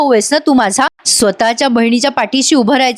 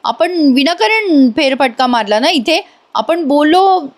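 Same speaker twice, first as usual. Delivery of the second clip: fed-up rant; 5 semitones higher than usual. Retold or imitated. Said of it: "ती अशी बडबडत असते वेड्यासारखी".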